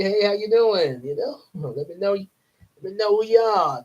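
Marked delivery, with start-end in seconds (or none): 0.0-1.0 friendly chat greeting. Pretend. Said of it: "Hey, say".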